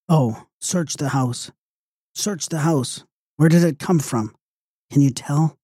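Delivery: high, thin-volume woman's plea; anxious mother voiced high by the narrator; female voice. A narrator's reading. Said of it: "a female voice said".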